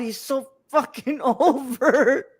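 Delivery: slow, laughing through the words. Real, not acted. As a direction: laugh while saying it. Laughing at wrestler.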